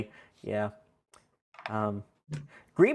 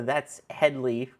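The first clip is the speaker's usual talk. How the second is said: Hedley quote; much slower than usual. Retold or imitated. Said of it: "they wanted me to do the".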